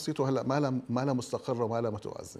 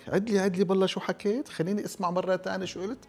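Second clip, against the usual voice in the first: acted disbelief; 6 semitones higher than usual. Acted startled request to repeat.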